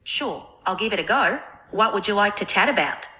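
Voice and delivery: put-on light Australian accent; friendly Aussie twang. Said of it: "Can you speak in Australian accent?".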